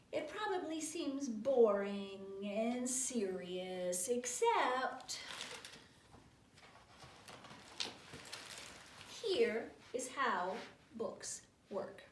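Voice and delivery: slow, drawn-out storybook reading; story narration. Acted. Reader explains the book to children, slow deliberate narration. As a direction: stretch each phrase deliberately for young listeners. Picture book read aloud.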